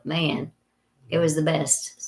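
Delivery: husky voice from a cold; raspy smoker-like voice; hoarse voice. Real, not acted. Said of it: "She's kinda got this smoker talk going on".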